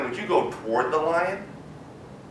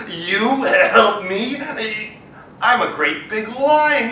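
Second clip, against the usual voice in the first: mocking lion; 3 semitones higher, 4 dB louder, much slower than usual. Lion mocks the mouse.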